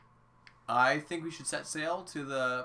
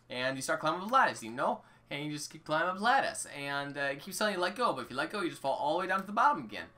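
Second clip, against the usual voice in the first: put-on rambling old Link in a jokey accent; 4 semitones lower than usual. Link telling his troubles to a support group, put-on accent. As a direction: play an aggrieved eighty-year-old with a put-on accent. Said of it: "I'm gonna keep the accent now".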